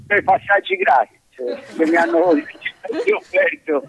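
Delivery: distant speakerphone sound. Real, not acted. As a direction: voice over a phone speaker. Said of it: "ma sei in viva voce per caso?".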